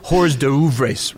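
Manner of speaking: hors d'oeuvres mangled as "hors touvres"; mispronounced hors d'oeuvres. Retold or imitated. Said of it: "That's this kind of guy".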